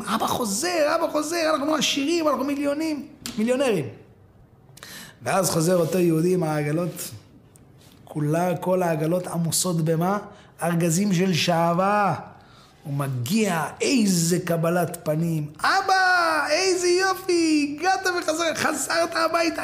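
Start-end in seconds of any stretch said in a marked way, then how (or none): 0.0-3.8 high-pitched gleeful chanting; excited children. Acted. Children hearing father returns rich, excited. Family celebrates father's coming fortune. 15.6-19.6 very high, gleeful cries; overjoyed welcome. Acted. Children greeting father come home, overjoyed.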